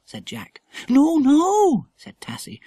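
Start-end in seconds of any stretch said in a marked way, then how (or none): 0.9-1.9 high, breathless frightened whisper; scared whisper. A narrator's reading. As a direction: gasp it out in fear. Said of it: "as if she was scared".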